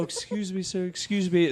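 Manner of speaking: soft, high imitated plea; polite begging approach. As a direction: play a meek beggar stopping a stranger. Imitating polite begging before outburst.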